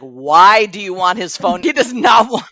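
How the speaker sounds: loud mock-exasperated protest; exasperated husband. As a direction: imitate a husband who wants no part of it.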